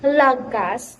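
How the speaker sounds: "lagas" said without the final-syllable stress; mispronounced lagas. Shown as a demonstration. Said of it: "instead of pronouncing it".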